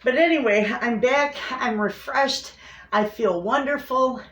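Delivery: bright, lifted energy; cheerful and upbeat. Real, not acted. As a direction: bounce back happily. Upbeat return after illness.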